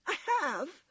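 high little rabbit protest; crying out. A narrator's reading. Toy rabbit objects to being mocked, crying out high. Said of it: "cried the little rabbit".

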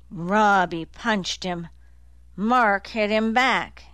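slow, breathless short bursts; out of breath. Acted. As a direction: gasp the words out in bursts. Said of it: "words coming out in short bursts".

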